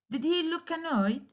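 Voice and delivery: "Did he look annoyed?" high, with he pushed hard; emphatic stress. Shown as a demonstration. Teacher models emphatic stress on operator and subject. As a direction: lean on he, sure of the answer. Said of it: "operator and subject usually receive emphatic stress".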